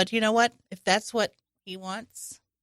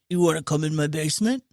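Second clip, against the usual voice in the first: low, creepy, coaxing; creepy Buffalo Bill voice; 6 semitones lower, faster than usual. Retold or imitated. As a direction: lure them in, lightly creepy. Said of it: "and this is how he talks".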